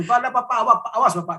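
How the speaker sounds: imitating his past angry self; retold angry threat. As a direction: reenact threatening the mentor in anger. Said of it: "saya dengan emosi gitu".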